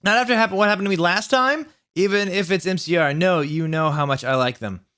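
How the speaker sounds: high, indignant rant; hammed-up angry girlfriend; mock angry. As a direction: scold him, overdone. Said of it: "in an angry voice".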